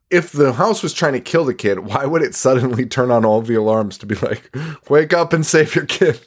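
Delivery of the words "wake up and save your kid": higher, urgent-sounding mock call; mock alarm warning. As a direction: playfully call out a wake-up warning. Voices the house's alarms.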